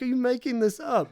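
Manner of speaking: half-amused doubt; skeptical Robert. Retold or imitated. Robert questions the makeup lady, lightly skeptical. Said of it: "he's like".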